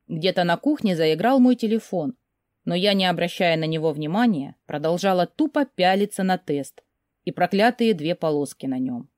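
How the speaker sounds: ordinary delivery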